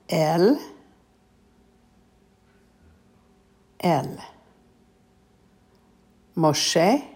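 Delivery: slow, word by word, with long pauses; slowly. Shown as a demonstration. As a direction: read each Hebrew word slowly for repeating. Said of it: "I will say it slowly".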